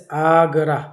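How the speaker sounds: آگرہ ending in an open a, no h; silent final h. Shown as a demonstration. Teacher showing hae ghair malfoozi, silent final h. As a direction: end آگرہ on the vowel, ہ unsounded. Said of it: "تلفظ میں نہ آئے".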